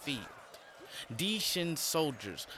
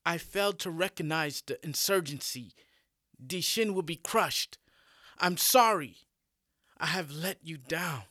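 contrite general; 4 semitones higher, 3 dB louder than usual. Acted. General apologizes to angry emperor.

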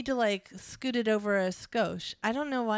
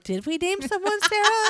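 high, louder mock-puzzled question through laughter; laughing disbelief; 11 semitones higher, 5 dB louder than usual. Co-writers checking their own cast list, baffled and laughing. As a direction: quote your own confusion, cracking up. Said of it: "we were like".

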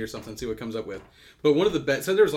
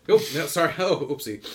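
surprised; 3 semitones higher, 5 dB louder than usual. Real, not acted. Realizes he offended King James fans.

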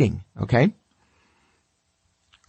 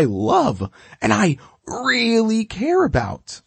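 eager dog voice; 2 semitones higher than usual. Retold or imitated. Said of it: "your dog is like".

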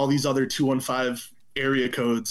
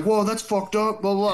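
shocked onlookers; 8 semitones higher than usual. Retold or imitated. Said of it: "some people are like".

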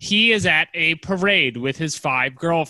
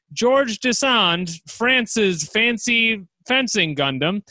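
dramatic announcer; 2 semitones higher than usual. Acted. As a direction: draw out each name. Announcer intro of fighter.

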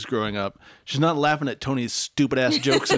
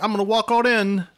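mock Tony; 7 semitones higher than usual. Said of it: "he's just like".

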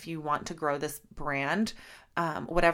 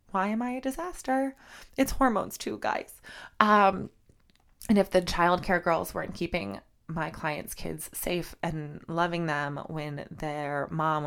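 tearing up. Real, not acted. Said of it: "I'm, like, literally gonna cry".

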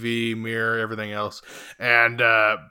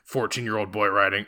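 lower, softer groan of disbelief; exasperated aside; 6 semitones lower, 5 dB quieter than usual. Retold or imitated. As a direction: roll your eyes at it. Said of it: "And I'm just like".

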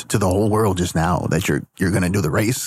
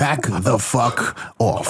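slow menacing threat; much slower than usual. Acted. Manager threatens fan.

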